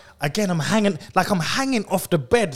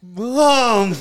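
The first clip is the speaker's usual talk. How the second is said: louder, higher drawn-out call; retold call to mum; 5 semitones higher, 4 dB louder than usual. High son calling mum from upstairs, drawn-out higher mock shout. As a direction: stretch it out, calling for help. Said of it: "how loud I am, though".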